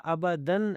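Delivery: ابدن with a final n sounded; wrong ending. Shown as a demonstration. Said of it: "تو پھر بھی غلط ہے".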